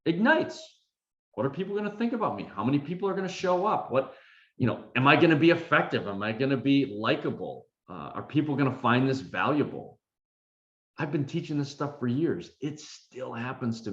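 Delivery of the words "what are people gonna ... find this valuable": quick, high worried self-questioning; inner critic voice. Retold or imitated. Speaker voicing his anxious inner critic before a session. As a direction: race through the doubts in a higher voice. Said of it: "my inner critic ignites".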